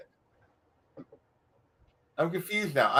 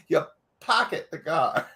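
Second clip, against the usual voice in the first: laughing. Real, not acted.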